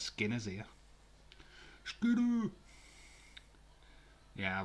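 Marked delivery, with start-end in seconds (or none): 1.8-2.5 high, loud joyful yell of a name; excited shout. Real, not acted. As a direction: call out the name with glee. Greeting a chatter by name.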